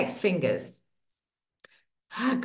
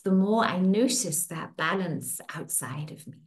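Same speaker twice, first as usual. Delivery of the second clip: soothing tapping-session guide; guided affirmation. Acted. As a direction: speak each affirmation as a gentle promise.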